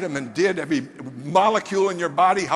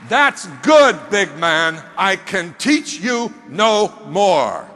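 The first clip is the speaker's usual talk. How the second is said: louder, slow, ringing approval; proud mentor; 5 dB louder, much slower than usual. Retold or imitated. Mentor approving the big man's yes, loud and slow. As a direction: bellow the praise, then slow right down.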